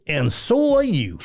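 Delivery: slow, chuckling comeback; laughing retort. Retold or imitated. Reggie laughs off the host's news about dying. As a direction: laugh through the quip.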